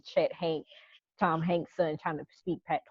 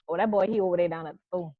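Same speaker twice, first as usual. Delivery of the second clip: Geechee accent demo; much faster than usual. Shown as a demonstration. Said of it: "we ask, like".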